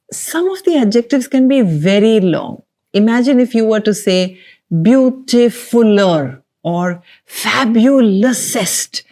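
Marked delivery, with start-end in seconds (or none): 4.7-9.0 mock wrong word. Shown as a demonstration. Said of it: "it would sound quite weird".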